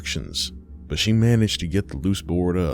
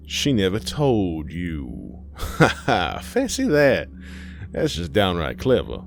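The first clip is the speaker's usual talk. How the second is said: gloating otherworldly being. Acted. Thing in mother's face laughs at Aisha, gloating. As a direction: toy with her, laughing in mock delight.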